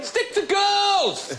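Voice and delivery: high, drawn-out shout. Real, not acted. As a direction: yell it with a stretch. Shouted joke.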